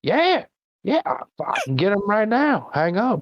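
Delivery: very high, eager hick voice; drunk redneck. Pretend. Imagined redneck on the phone, very high eager hick voice. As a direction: jump at the chance like an excited hillbilly. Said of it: "could you imagine being a drunk redneck".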